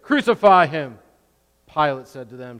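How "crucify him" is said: building to a much higher, louder yell; mob shout. Acted. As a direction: scream it as the crowd rising up. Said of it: "But they shouted".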